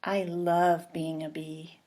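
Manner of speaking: hushed delight; whisper. Acted. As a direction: whisper it to herself in awe. Honey at the flower, whispered.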